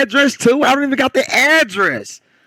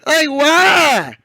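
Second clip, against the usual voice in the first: laughing disbelief, yelling it; excited shout; 7 semitones higher than usual. Real, not acted. Laughing outburst about embarrassment.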